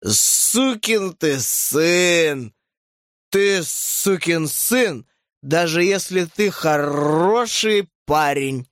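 put-on very slow, slurred drunk curse; drunk slurring. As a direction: drag it out, barely standing. Very drunk woman cursing.

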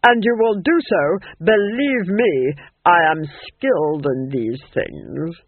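loud, slowing imperious threat; grim menace. A narrator's reading. Duchess warns Nanny she is skilled, with grim menace. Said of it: "said the Duchess grimly".

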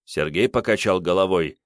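ordinary delivery, nothing marked

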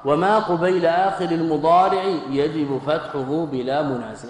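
a lightly chanted couplet from the poem; teacher reciting the poem's next line; verse recitation. Acted. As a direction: intone the verse as a quoted text. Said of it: "ثم قال".

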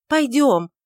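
loud, high urging call; impatient cry. A narrator's reading. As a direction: snap him into moving. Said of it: "нетерпеливо воскликнула Иудивь".

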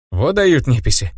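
ordinary delivery, nothing marked

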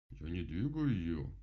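slow, self-important grumble; pompous grumble. Acted. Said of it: "важно буркнул Кастор".

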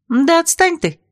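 high, sharp get-lost snap; irritated brush-off. A narrator's reading. Princess snapping at Vasilisa to leave her alone, annoyed.

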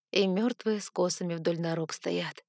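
ordinary delivery

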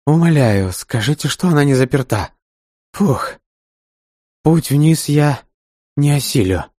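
gasping, worn out from the stairs; out of breath. A narrator's reading. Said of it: "который абсолютно выдохся". (запыхавшийся старик)

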